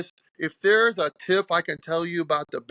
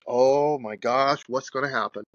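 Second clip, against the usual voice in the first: reliving the moment the tire blew, aghast; retold shock.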